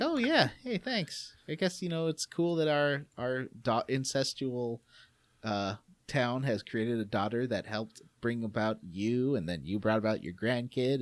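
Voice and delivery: mild send-up of smug villagers; mocking old villagers. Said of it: "they're like".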